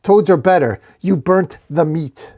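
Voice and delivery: high, loud volley of insults; screaming. A narrator's reading. Shield attacking the wizard, screaming insults. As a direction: shout each complaint, slowing on the last.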